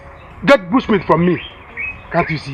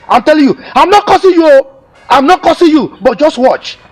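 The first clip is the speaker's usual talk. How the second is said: heated warning; 2 semitones higher, 4 dB louder than usual. Acted. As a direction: threaten her, voice raised. Father warning wife heatedly.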